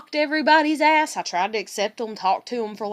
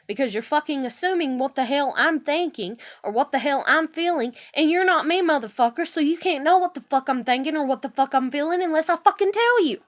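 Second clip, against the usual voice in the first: exasperated, emphatic tirade; heated rant. Real, not acted. Venting at the man who assumed her feelings, heated. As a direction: build in indignation toward the last word.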